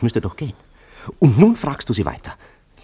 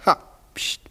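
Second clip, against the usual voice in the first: whisper. Acted.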